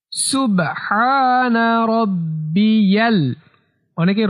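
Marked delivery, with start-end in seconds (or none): 0.1-3.2 slow recitation with long, held vowels; measured, near-chanted Arabic; tasbih demonstration. Shown as a demonstration. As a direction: recite it steadily for learners. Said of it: "সে তাসবিহটি হলো".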